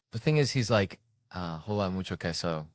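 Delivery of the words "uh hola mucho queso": lightly put-on bad Spanish accent; broken Spanish. Seagal greeting a Latino caller in broken Spanish. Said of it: "horrifically broken Spanish".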